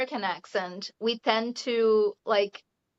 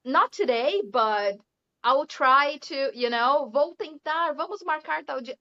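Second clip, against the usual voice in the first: mock polite evasion; 3 semitones higher than usual. Brazilian polite non-committal reply.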